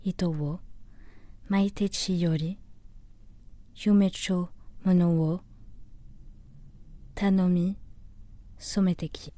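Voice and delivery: measured Japanese verse recitation, phrase by phrase; solemn poetry reading in Japanese; poem recital. Acted. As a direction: recite the waka with long pauses between phrases.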